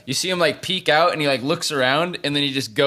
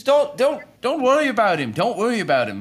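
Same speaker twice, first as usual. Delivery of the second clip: much higher, pleading, nervous voice; Ren voice; 9 semitones higher than usual. Acted. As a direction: play Ren high and anxious, talking him down. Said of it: "he says".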